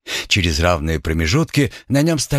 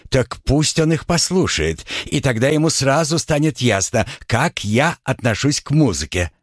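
higher, huffy voice; 5 semitones higher than usual. Acted. Chokey, offended.

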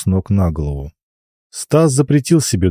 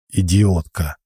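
muttered through teeth; slower than usual. Acted. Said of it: "процедил он".

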